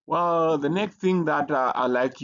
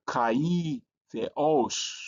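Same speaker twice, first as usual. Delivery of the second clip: kai, the os with pitch lifted on the accent; voice going up; 3 semitones higher, much slower than usual. Shown as a demonstration. Teacher showing the accent mark, kai, the os with rising accent. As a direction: let the accented syllable rise in kai, the os. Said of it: "your voice is like going up".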